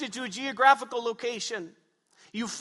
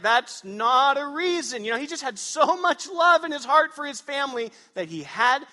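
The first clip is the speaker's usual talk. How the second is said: louder and higher, in mock disbelief; incredulous listener; 5 semitones higher, 5 dB louder than usual. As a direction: scoff at it as if it makes no sense. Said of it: "You'd all look at me like".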